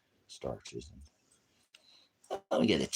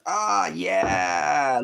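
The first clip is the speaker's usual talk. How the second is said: excited cry; 11 semitones higher, 7 dB louder than usual. Real, not acted. Exclaiming at something on screen.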